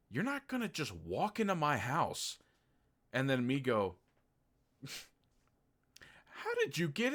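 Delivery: rising into a high mocking squeak; rant, then mimic the girl shrilly high; hammed-up indignant rant; exasperated rant. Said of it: "I'm like".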